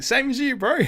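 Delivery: high, light and offhand; casual friend reply. Retold or imitated. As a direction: toss it back to him casually. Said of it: "He's like".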